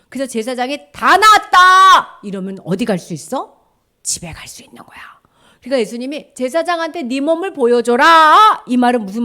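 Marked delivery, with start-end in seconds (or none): 0.9-2.2 high, slow, booming proclamation; loud declaration. Acted. Priest declaring a leper healed, loud proclamation. 6.4-8.6 high, loud proclamation; emphatic command. Acted. Jesus sending lepers to the priest, loud command.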